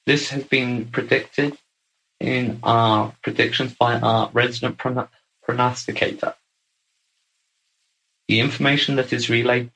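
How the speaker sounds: lightly voiced stately address from a visiting speaker; a hint of a formal channelled speaker, grand words; formal guest speaker. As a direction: speak as a ceremonious guest lecturer, lofty and measured. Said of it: "our guest speaker".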